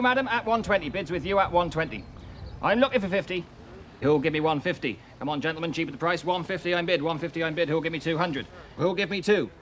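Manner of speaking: auction bid spotter. Acted. Auctioneer calling bids at auction.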